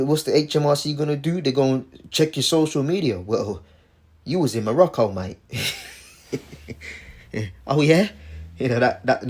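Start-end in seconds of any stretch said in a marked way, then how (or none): 4.2-5.4 mock British Cockney accent. Taxman questioning a holidaymaker, mock Cockney accent. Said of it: "that British Cockney accent". 7.7-8.1 sceptical Cockney, rising at the end; doubting question in a put-on Cockney; Cockney accent. Taxman doubting the holidaymaker, Cockney accent. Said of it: "that British Cockney accent".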